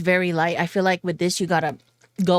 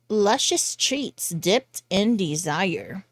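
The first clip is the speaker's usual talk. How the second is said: slow, sultry ad-copy read; mock sexy; 3 dB quieter, much slower than usual. Reviewer reading perfume packaging to viewers, mock sexy. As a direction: linger on each word as if seducing. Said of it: "gotta make it sound sexy".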